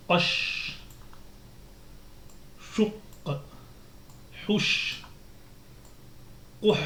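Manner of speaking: each syllable said alone with long pauses; Arabic syllable drill. Shown as a demonstration. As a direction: model syllables for the class to repeat. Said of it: "Donc entraînement un".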